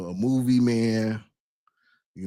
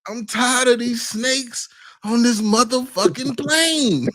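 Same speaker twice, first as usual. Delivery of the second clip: lightly voiced Samuel Jackson; Samuel Jackson impression; 10 semitones higher than usual. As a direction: shout the famous line. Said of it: "get sports and fitness rants to say that".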